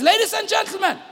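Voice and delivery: high-pitched call for attention. Retold or imitated. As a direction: imitate a pilot calling over the cabin noise. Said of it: "raises the volume a little bit".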